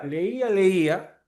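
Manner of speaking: slow demo. Shown as a demonstration. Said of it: "y no tiene diferente pronunciación".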